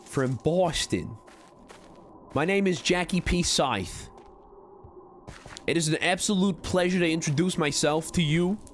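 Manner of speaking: put-on high, projected Boston accent; JFK-ish Boston accent. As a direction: try out a Boston accent, pitched well up. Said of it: "I'm sounding a bit J F K-ish there".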